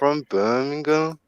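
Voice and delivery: put-on slow, drawn-out Birmingham accent as if moaning; mock Birmingham moan, slowed right down. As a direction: drag out a whiny Birmingham accent. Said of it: "Sound like they're moaning".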